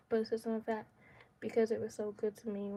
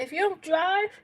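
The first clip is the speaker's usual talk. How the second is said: high, loud urgent warning; retold scream; 7 semitones higher, 9 dB louder than usual. Woman urging her sister to pull off, retold urgent yell. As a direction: raise it to a threatening yell. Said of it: "I scream out the window".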